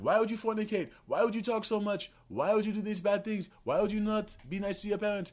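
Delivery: very high-pitched imitation of a scolding woman; preaching train lady. Imitating lady on the train berating riders, high and relentless. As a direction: chant reproaches like an African lady preacher. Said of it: "She's like".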